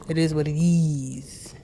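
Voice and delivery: slow breathy whisper of the phrase. Shown as a demonstration.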